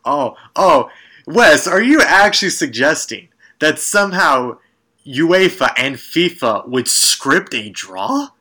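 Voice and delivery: mock-scandalised question, climbing at the end; mock incredulity. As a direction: challenge him in playful outrage. Mock-accuses co-host of alleging fixed draw.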